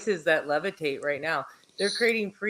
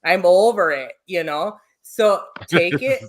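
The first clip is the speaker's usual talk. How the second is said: put-on Midwestern accent; 5 dB louder than usual. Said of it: "I'm gonna get my Midwestern accent out on ya".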